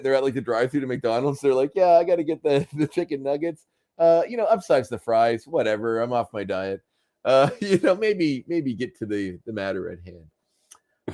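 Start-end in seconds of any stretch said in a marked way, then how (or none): 1.7-11.1 mock casual driver ordering fast food, a bit higher; lightly voiced slacker on a lunch break; fading off at the end; lazy ambulance driver.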